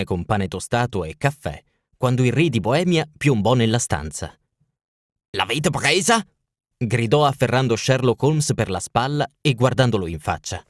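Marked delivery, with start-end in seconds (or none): 5.4-6.3 lightly voiced impatient king; a hint of royal urgency; king of Bohemia. King bursting in on Holmes at breakfast, anxious.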